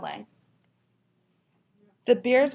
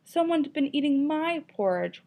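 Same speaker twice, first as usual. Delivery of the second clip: mild wail; 5 semitones higher, 3 dB louder than usual. Acted. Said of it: "wailed Mama's Bear".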